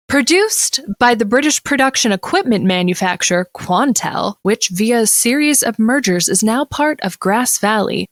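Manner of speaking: reading it like a news anchor; crisp broadcast news read; newscaster voice. Shown as a demonstration. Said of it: "that was an excellent newscaster voice".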